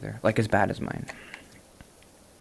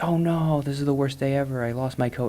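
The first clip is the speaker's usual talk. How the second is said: higher, louder panicked lady; lady wailing over her lost coat, hammed up and louder; hammed-up distress; 5 semitones higher, 4 dB louder than usual. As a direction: play her mock despair over the coat. Imitating lady's distress again.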